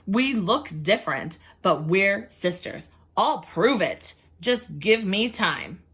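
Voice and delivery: slow, earnest plea; buy time sincerely; pleading hen. Acted. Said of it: "said Missus Chicken".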